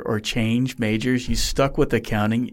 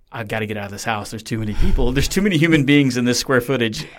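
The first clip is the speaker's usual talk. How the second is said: acted-out complaint, building louder; mock exasperation; 5 dB louder than usual. Host voicing the guest's younger self fed up at home, mock exasperated. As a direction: play a fed-up kid in a crowded house.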